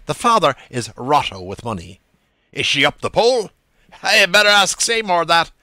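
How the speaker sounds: Buck Mulligan's voice. A narrator's reading. Mulligan and young man trade lines.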